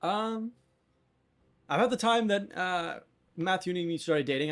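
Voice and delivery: high, hesitant start to an answer; cook in character. Acted. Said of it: "What about you?".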